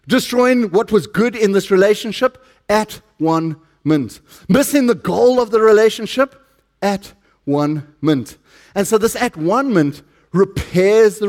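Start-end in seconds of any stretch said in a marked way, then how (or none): 2.7-4.2 at one mint, each word slow and falling; slow emphatic refrain. Acted. Preacher to congregation, slow emphatic refrain. 6.8-8.4 at one mint, each word slow and falling; slow emphatic refrain. Acted. Preacher to congregation, slow emphatic refrain.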